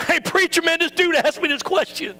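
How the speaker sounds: breezy text message; playful texting friend. Retold or imitated. Congregant texting the preacher man, breezy and playful.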